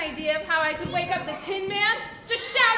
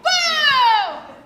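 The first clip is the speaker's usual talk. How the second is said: loud, higher boo to scare; scary boo; 5 semitones higher, 10 dB louder than usual. Pretend. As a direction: jump out and yell boo. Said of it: "Scare the lion?".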